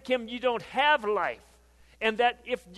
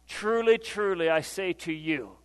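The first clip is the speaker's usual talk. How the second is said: solemn proclamation; 2 semitones lower than usual. Acted. Preacher setting up Jesus' hard saying, solemn. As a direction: let it settle gravely before the revelation.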